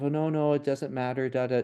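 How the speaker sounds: brushing it off in a mocking, breezy voice; a light, high parody of empty "it doesn't matter" positivity; lightly mocked shallow cheer; mock dismissive. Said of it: "not silly, just think positive".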